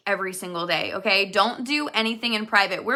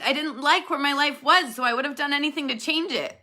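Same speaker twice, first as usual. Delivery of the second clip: near tears; 3 semitones higher than usual. Real, not acted. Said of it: "That'll make me cry if I say that word".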